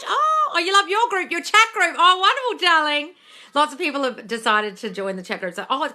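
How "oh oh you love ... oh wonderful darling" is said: high, loud, delighted cooing; gushing delight. Real, not acted. Chat host thanks an adoring viewer, gushing delight. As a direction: gush with thanks, pitch shooting up.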